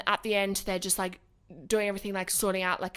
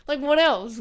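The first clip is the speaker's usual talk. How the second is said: exasperated; 4 semitones higher, 4 dB louder than usual. Retold or imitated. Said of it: "I'm like".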